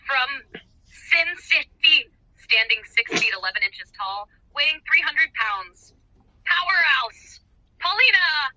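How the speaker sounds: booming ring announcer intro, drawn out. Retold or imitated. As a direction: announce her like a big fight night. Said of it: "the ring announcer voice in my head is already doing it".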